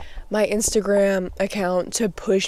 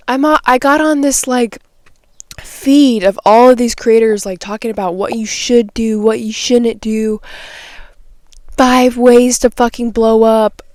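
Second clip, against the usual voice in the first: heated rant; 3 semitones higher, 5 dB louder than usual. Real, not acted. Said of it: "I'm getting heated".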